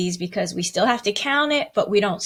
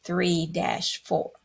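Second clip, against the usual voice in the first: slow, even counting; teacher slowly counting two, three dash four; counting the beats; slower than usual. Shown as a demonstration. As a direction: count it slowly, in strict time. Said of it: "we would count that one".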